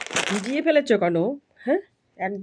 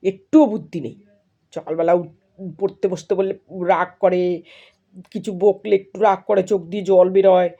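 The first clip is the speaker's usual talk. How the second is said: exasperated complaining; 4 dB louder than usual. Real, not acted. Mother complains about daughter's sulking.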